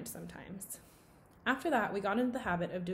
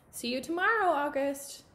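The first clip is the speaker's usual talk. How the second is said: higher, louder friendly call; 7 semitones higher, 5 dB louder than usual. A narrator's reading. Girl calling goodbye to August across the crowd, cheerful.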